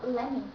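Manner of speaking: "Let me" said as lemme; T cut off. Shown as a demonstration. Teacher models the short form, T dropped. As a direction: glide from "Let" into "me" without T. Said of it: "So we just say".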